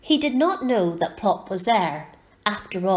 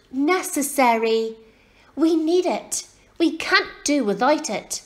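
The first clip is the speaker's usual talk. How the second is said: put-on explaining girl; 5 semitones higher than usual. A narrator's reading. Girl patiently explains the word.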